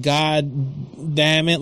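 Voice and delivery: slow, dragged-out mock curse; imitating a muttered slow curse; drawn-out retold curse. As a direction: stretch out each word like a fed-up man. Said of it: "like that".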